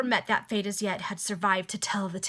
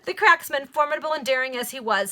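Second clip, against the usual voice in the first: laughing; 5 semitones higher, 7 dB louder than usual. Real, not acted. Reading through laughter.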